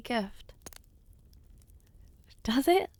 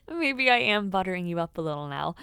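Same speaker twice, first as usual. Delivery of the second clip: laughing through words; 3 semitones lower than usual. Acted. Admits flattering, laughing.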